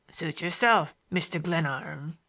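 drawn-out, sneering Mister Glenarm; disagreeable drawl. A narrator's reading. Morgan drawls the narrator's name with sneering contempt. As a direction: lean on the name with slow contempt. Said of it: "gave it a disagreeable drawling emphasis".

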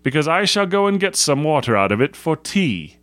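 a hint of boyish defiance; defiant schoolboy. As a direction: declare it like a cocky young scout. Stanley's defiant boast.

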